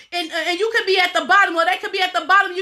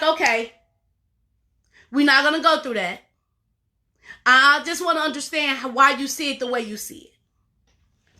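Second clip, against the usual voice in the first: monotone voice; 3 semitones lower than usual. Shown as a demonstration. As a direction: keep it level and unbothered.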